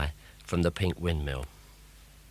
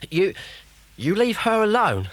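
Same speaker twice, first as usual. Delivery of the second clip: loud, high, defiant cry; defiant shout; 12 semitones higher, 5 dB louder than usual. A narrator's reading. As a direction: stand up to the witch, shouting. Boy defends Lorraine.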